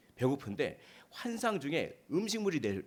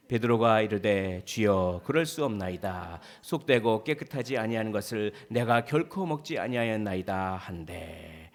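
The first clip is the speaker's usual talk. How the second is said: loud, measured, level-toned recitation; congregational scripture reading; 3 semitones lower, 5 dB louder than usual. Real, not acted. Preacher leads the congregation reading a verse together, in measured recitation. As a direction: read the verse out in unison style, evenly. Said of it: "한 목소리로 읽어보도록 하시겠습니다".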